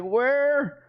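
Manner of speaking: high, frantic put-on voice for a panicking fan; mock panicked viewer. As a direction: squeak it out like someone losing their mind. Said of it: "Everyone starts to panic".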